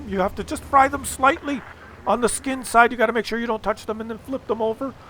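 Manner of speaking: lightly voiced keen dad; enthusiastic dad explaining. Dad explains his fish method.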